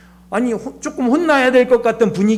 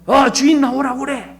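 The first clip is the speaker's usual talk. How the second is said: higher-pitched indignant demand; hammed-up complaint to the management; mock angry customer; 7 semitones higher than usual. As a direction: kick up a fuss, acting out an outraged diner. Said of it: "난리 난리를 치시는 분이".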